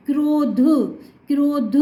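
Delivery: क्रोध with a long o and a released dh at the end; model pronunciation. Shown as a demonstration. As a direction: sound क्रोध out carefully for a pupil. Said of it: "रो क्यों बोल रही हूँ". (क्रोध में लंबा ओ, साफ़ उच्चारण)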